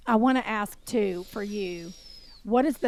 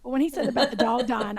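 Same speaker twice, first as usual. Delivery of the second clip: ordinary talk, nothing marked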